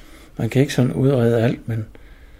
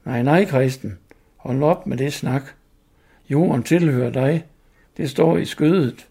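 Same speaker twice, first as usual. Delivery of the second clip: story reading; 3 semitones higher, slower than usual. Acted. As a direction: read it like a tale to listeners. Reads story over music. (oplæsning af fortælling)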